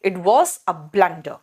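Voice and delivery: "blunder" said slowly with an "uh" vowel, not "yoo"; short U sound. Shown as a demonstration. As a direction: model "blunder" as BLUN-duh, slowly. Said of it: "यू नहीं होगा, यहाँ पे अ होगा". ("blunder" में यू नहीं, अ की आवाज़)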